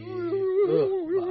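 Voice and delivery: high cracked grunt; the voice breaks on a groan. Real, not acted. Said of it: "I lost part of my voice there".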